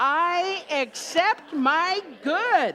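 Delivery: very slow, loud, heartfelt tone full of conviction. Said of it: "Now say it like you believe it".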